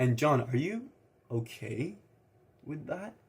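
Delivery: halting beat of silence before "okay". Coaching on tonality with a question to john, short pause before okay. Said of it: "Have that mini pause before you say the word okay, then have the longer pause. Be like".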